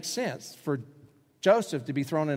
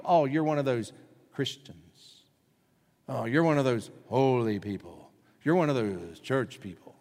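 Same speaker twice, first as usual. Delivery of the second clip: mocking; 2 semitones lower than usual. People name-calling believers who do the right thing, mocking. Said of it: "They will call you names, mock you".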